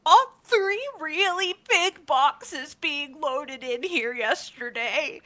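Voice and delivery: high, slow little gnome voice; timid gnome. Acted. Gnome apprentice answering Arista, high and slow. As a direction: answer shyly like a nervous apprentice.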